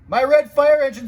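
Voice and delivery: high, loud wail of dismay; dismayed cry. Acted. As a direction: cry out over the ruined engine. Chief sees his pink engine.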